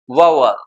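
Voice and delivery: "वावल" as VOW-ul, low falling end; correct "vowel". Shown as a demonstration. Teacher models the correct pronunciation, "वावल" said as VOW-ul. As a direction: open "vow" glide in "वावल", then a short "ul". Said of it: "ये इसका correct pronunciation है".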